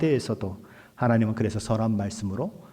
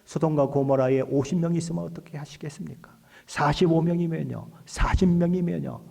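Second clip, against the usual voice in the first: acted haggling, climbing in pitch; bargaining plea; 4 semitones higher than usual. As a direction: push the number down, step by step. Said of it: "라고 따지는 거예요". (점점 높아지며 흥정하듯 따지는 말투)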